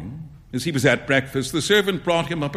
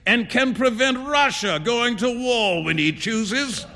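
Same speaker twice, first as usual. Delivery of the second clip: amused painter revealing a secret; 7 semitones higher than usual. Acted. Trevor tells Huey who the beggar is, amused relish. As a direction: build up the rich man with relish, pitch climbing. Voices Trevor boasting of the Baron.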